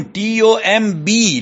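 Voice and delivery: ordinary talk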